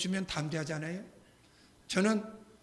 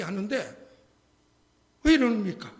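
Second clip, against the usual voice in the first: ordinary talk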